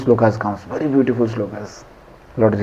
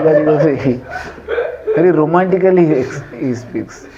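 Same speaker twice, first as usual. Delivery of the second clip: laughing words. Real, not acted. Teacher repeating the point to the class, still laughing. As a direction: still chuckling through the words.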